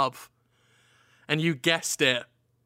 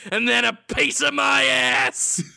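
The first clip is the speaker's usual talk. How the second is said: mock yelled threat; 7 semitones higher, 4 dB louder than usual. Hermit threat.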